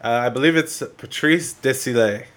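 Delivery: put-on light French Canadian accent on the name.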